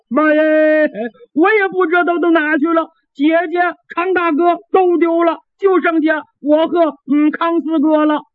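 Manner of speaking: simple lad blubbering to his mother, pitched high; half-comic crying, a big-mouthed boy. Acted. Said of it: "咧着大嘴哭了".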